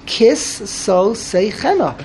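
KISS, SO and SAY CHENA set apart by short pauses; pausing between words. Shown as a demonstration. Teacher showing a student how to just pause, paused after each word. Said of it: "Just pause".

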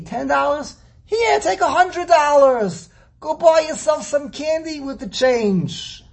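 high, fast, scoffing Hasid who won't stint; mock Hasid. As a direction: play a generous Hasid mocking the stingy. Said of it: "So the Hasidim, they love to grill you".

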